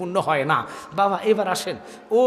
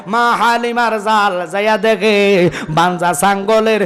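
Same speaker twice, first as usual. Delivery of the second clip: melodic sermon storytelling; 2 semitones higher, 4 dB louder than usual. Real, not acted. Preacher telling of Halima finding the goat's milk flowing, melodic storytelling. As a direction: carry the tale along with stretched phrase endings.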